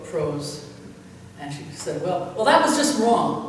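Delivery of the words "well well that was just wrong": higher, louder flustered cover-up; sheepish fib. Retold or imitated. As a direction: blurt it out, caught off guard and covering. Pastor freezes, covers for mistake.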